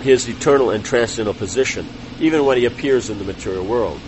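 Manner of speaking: measured reading of a religious text; formal read-aloud. Real, not acted. Teacher reading scripture summary to class, formal read-aloud. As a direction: read it out clearly, phrase by phrase.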